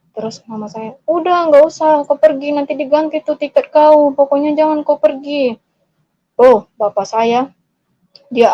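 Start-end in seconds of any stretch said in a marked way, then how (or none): 1.1-5.6 higher, insistent plea; imitated pleading mother. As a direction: act out a mother begging. Mother begs child to stay.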